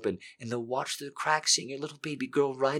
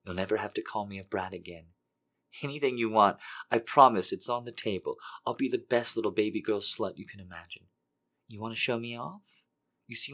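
soft, breathy, pleading whisper-voice; soft desperate begging; 7 dB quieter than usual. Acted. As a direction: plead softly, hungry and desperate. Character begs in hushed voice.

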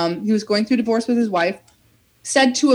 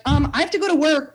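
higher-pitched mock yell, no real volume; retold yelling; 6 semitones higher, faster than usual. Late worker retelling how she pushed police to let her through, mock yelling. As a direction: insist as if yelling, voice raised in pitch. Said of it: "like, yelling at these cops".

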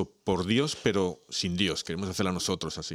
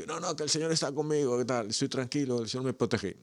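calm stubborn believer; 6 semitones higher than usual. Acted. Stubborn believer refuses helicopter.

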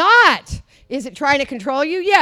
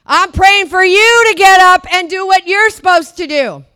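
pleading God voice, building; 5 dB louder than usual. Retold or imitated. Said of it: "God's saying".

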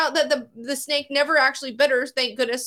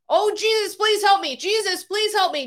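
mock scream; 6 semitones higher than usual. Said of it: "she's screaming".

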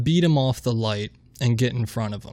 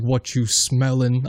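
mock Rock impression; slower than usual. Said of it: "I tried to do that".

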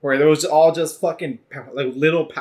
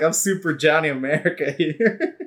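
put-on Danish accent. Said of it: "like, Danish accent".

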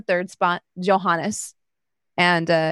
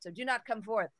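lightly voiced herald, higher; 4 semitones higher than usual. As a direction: read the prizes out like a herald. Herald listing the prizes.

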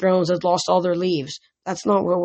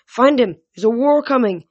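loud and high, forceful; insisting; 6 semitones higher, 5 dB louder than usual. A narrator's reading. Percy insisting to the satyr that war is coming, loud. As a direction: drive it home with urgency.

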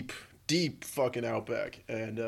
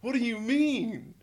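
stammered, much higher and louder, stunned; record scratch disbelief; 10 semitones higher, 10 dB louder, much slower than usual. Retold or imitated. Friend says the movie's crap while watching it, loud high disbelief. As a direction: stop dead in total disbelief, loud and high. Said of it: "I had to do the fucking, like, the record scratch".

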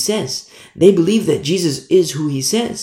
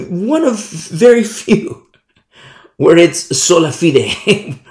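laughing; 4 dB louder, slower than usual. Real, not acted. Laughs while speaking.

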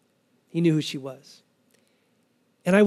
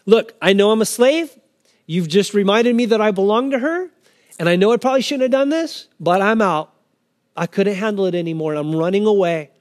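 candid honesty; 3 semitones higher, 4 dB louder than usual. Acted. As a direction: own up openly and firmly. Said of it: "just the candor and the honesty".

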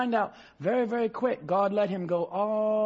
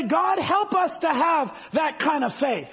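fervent prayer cry; 5 semitones higher than usual. Real, not acted. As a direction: cry it out to heaven. Preacher cries out in prayer.

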